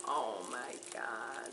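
very low, soft, slow murmur; real quiet amazement; hushed awe. Real, not acted. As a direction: sink to a slow, stunned near-whisper. Moved by Aragog mug.

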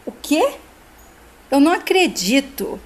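mildly outraged, pitch jumping on the question; indignant. Acted. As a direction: act out an indignant, incredulous reply. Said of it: "indignado e fala".

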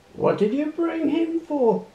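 chuckling. A narrator's reading. Man at the gate mocking the old tractor, chuckling. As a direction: tease the farmer with a laugh in it. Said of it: "the man chuckled".

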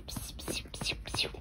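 soft unvoiced psiu psiu; whispered shushing. Real, not acted. Shushing the baby.

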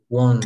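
"Want" said as won't, rounded o; pronunciation of won't. Shown as a demonstration. Teacher modelling good pronunciation, "Want" said like won't. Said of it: "Entonces pronunciamos bien".

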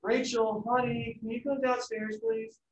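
high, soft, sugary request; high and soft honeyed call; sweet mom voice. Retold or imitated. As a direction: coax the kid down gently. Mom sweetly calling child.

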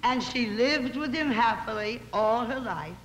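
measured, sing-song verse reading; poem recitation. Acted. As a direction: recite it like a witty moral tale in rhyme.

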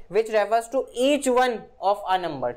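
very slow, word-by-word definition read; slow dictation. Shown as a demonstration. Teacher dictating a grammar definition to students, very slow. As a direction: spell it out slowly for students to copy.

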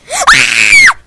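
sudden loud frustrated yell. Real, not acted. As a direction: shout out in frustration. Game fail.

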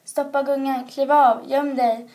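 loud, rapid-fire commands; urgent shouted orders. A narrator's reading. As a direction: bark out the orders before the farmer arrives. Crow urging cow to hide.

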